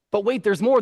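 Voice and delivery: high, punchy catchphrase, rising end; infomercial pitchman. Retold or imitated. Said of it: "annoying guy that talks too loud".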